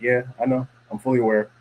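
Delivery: matter-of-fact retort, level and unbothered; imitating a blunt, offhand reply. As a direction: acknowledge it plainly, without softening. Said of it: "why are you saying it like that".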